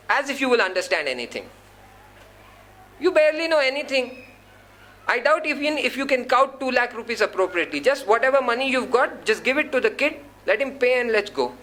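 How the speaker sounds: lightly put-on Hyderabadi accent. Wife belittles husband over the dentist's bill, imitated Hyderabadi accent. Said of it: "In that pure Hyderabadi accent".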